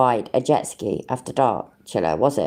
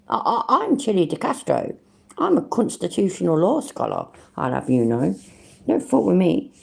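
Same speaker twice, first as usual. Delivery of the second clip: mock entitled guy; 2 semitones higher than usual. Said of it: "It's one of them, innit?".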